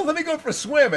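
mock rich lady. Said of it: "She's gonna go".

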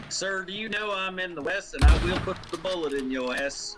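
lightly attempted cowboy accent; unplaceable put-on Western accent. Player threatening another in the West, muddled put-on accent. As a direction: try a wobbly Western accent. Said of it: "What accent is that?".

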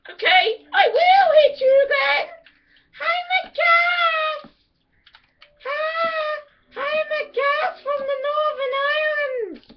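put-on high, slow, shouted Scottish accent. Warrior challenging a dwarf, shouting in Scottish accent. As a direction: roar it in a hammed-up Scottish accent. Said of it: "Scottish accent is amazing here".

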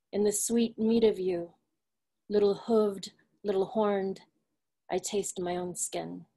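measured poem recital with deliberate pauses; poised literary recitation; poetry reading. Acted. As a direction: read your poem line by line, giving each image room. Reads own poem aloud.

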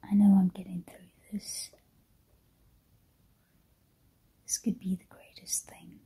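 hushed whisper, not to wake anyone. Real, not acted. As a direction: whisper early in the morning, keep it hushed. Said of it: "I'm whispering because".

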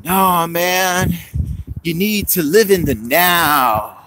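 slow, lightly voiced laid-back hippie; a hint of a hippie at the bar preaching the now; hippie guy. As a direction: drift through it like a mellow stoner. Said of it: "He's, like, this hippie guy".

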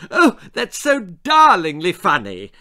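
put-on an eleven-year-old faking a sophisticated laugh-line; hammed-up posh lady voice from a little girl; girl trying to sound grown-up. A narrator's reading. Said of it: "trying to sound thirty".

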